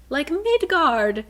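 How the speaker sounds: "like Midgard" drawn out slowly, high and loud; stretched delight. Retold or imitated. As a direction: savor the name of home. Bryce strangely comforted by Midgard.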